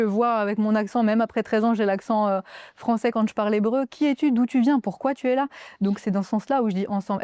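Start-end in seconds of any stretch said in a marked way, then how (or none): 3.9-5.5 keen questioning. Retold or imitated. Voices string of questions to newcomer.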